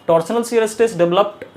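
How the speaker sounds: very slow, word by word, for notes; dictating a definition to the class; slow dictation. Shown as a demonstration. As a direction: read out slowly so students can write. Reading definition off the board.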